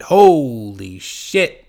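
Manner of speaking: slow drawn-out holy shit; amazed. Real, not acted. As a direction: stretch it out in disbelief. Amazed at episode number.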